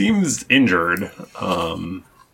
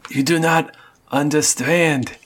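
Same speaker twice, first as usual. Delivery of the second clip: cat voice; 6 semitones higher than usual. Acted. Cat explains place of power.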